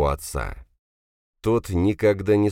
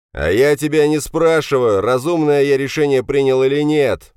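loud, raised-pitch shout of an irate father; angry shout; 10 semitones higher, 7 dB louder than usual. A narrator's reading. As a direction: shout the son down. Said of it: "услышал я крик Драгунова". (сердитый крик отца)

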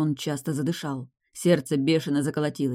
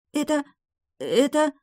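high, halting, frightened; girl stunned by the poison; stammering girl; 10 semitones higher than usual. A narrator's reading. (заикаясь, высоким голосом)

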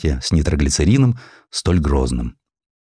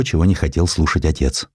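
usual speaking voice

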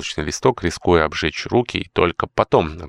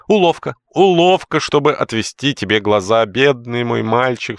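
much higher, louder cry; cried out; 7 semitones higher, 4 dB louder than usual. Acted. Housekeeper cries out warning George, shrill. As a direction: cry out the trick. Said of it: "вскричала Маунтин".

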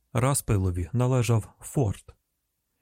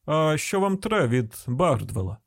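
slow, higher countryman's question; wary rural man on the phone; suspicious householder; 4 semitones higher, slower than usual. Acted. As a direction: ask slowly what the caller wants.

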